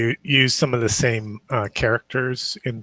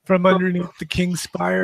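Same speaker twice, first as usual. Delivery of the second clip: freaked-out tripper; 7 semitones higher than usual. Acted. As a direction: play the character panicking on mushrooms. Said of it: "like, a super crazy, like, freak out".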